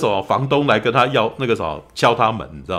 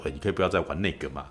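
helpless sigh; 5 semitones lower, 8 dB quieter, faster than usual. Retold or imitated. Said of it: "有点无奈说".

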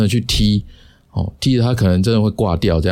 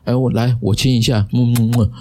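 mock kissing; 3 semitones higher than usual. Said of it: "我就撅起嘴来".

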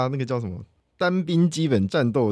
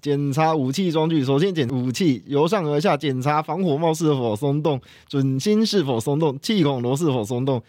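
recited drill; 2 semitones higher than usual. Shown as a demonstration. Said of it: "我们可以来一小段就好。".

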